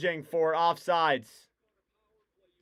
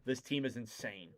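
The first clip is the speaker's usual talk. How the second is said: hushed awe; 4 semitones lower, 11 dB quieter than usual. Real, not acted. Awed aside.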